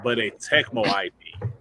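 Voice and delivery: formal news anchor read; newscaster voice. Pretend. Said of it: "let me put on my, my newscaster voice".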